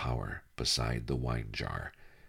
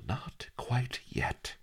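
cautioning; 10 semitones higher, 4 dB quieter, slower than usual. Acted. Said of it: "he cautioned".

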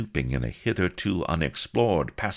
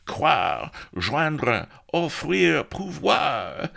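crying out verbs; 12 semitones higher, 4 dB louder, much slower than usual. A narrator's reading.

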